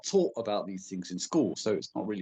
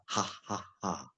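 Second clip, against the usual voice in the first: breathy throat exhales; 7 dB quieter, slower than usual. Shown as a demonstration. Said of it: "without the vocals".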